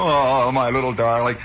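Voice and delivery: lightly voiced cooing dandy; a touch of affected adoration; doting pet owner. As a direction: coo over a pampered pet. Same doting owner voiced again.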